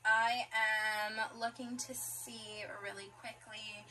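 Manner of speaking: slow unvoiced whisper; soft whispered aside. Real, not acted. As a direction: whisper it to yourself while checking. Quiet aside while checking pieces.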